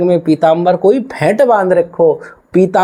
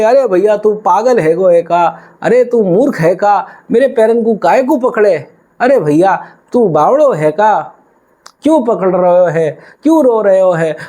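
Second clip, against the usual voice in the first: put-on higher, scolding boy who thinks the old man is mad; a village boy brushing off a crazy stranger; lightly voiced puzzled boy, higher; bewildered cowherd boy; 4 semitones higher than usual. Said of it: "ग्वाल बोले".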